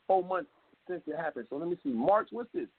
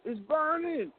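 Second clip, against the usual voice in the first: high-pitched imitation of a cry of pain; mock pained yelling; 10 semitones higher, slower than usual. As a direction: cry out as if burning, without much volume. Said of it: "you would be screaming and yelling".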